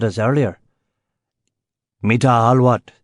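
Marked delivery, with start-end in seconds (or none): 2.0-2.9 demanding. A narrator's reading. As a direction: bark it out at the guests. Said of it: "he demanded".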